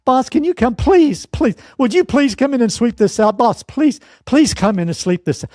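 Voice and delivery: high, whiny pleading employee; hammed-up high pleading to the boss; begging employee. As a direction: beg the boss like a helpless worker. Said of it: "you get a call from me".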